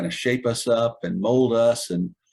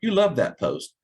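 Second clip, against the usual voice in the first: mock drill sergeant; 5 semitones higher than usual. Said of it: "He said".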